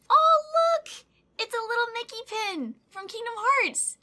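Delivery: very high, loud delighted squeal; excited squeal. Real, not acted. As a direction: burst out thrilled at a gift. Delighted at a gift pin.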